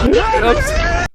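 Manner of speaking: high shrieking laughter; real helpless laughter; cracking up. Real, not acted. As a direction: laugh uncontrollably, barely getting words out. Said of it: "sorry, folks".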